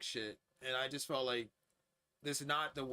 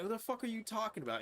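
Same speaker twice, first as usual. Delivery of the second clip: incredulous retort; 9 semitones higher, faster than usual. Retold or imitated. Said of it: "I'm just like".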